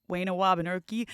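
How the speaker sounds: "Wayne Wabanurki" with W in place of R; speech impediment. Retold or imitated. Kid from the camp joke talking, "Wayne Wabanurki" with W for R. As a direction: imitate a child who turns R into W in "Wayne Wabanurki". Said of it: "he had a speech impediment".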